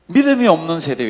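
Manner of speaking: loud retold rebuke; scolding. Jesus rebuking those around him, loud scolding. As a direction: push it out firmly as a reproof. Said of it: "이렇게 꾸짖었습니다".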